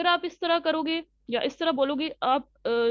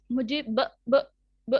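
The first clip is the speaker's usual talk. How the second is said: put-on child stammering; slower than usual. Shown as a demonstration. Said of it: "मुझे बिल्ली दो".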